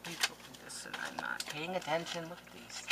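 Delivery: soft whisper to yourself; whispered aside. Real, not acted. Crafter whispers reproach for missing the cards. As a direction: mutter it under your breath.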